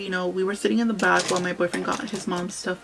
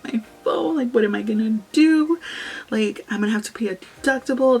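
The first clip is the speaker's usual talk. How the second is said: retold tearful wail; 2 semitones higher, 4 dB louder than usual. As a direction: whine about the lost phone as if it's the end of the world. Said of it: "I was crying".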